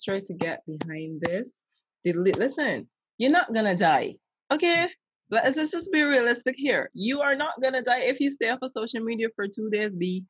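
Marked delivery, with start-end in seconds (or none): 2.0-9.9 emphatic scolding. Real, not acted. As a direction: tell them straight, raised voice. Scolding listeners to log off.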